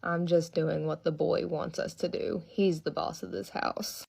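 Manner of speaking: put-on slow, growled child's voice; low growl voice. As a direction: growl it out slowly. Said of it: "like, a low growl voice".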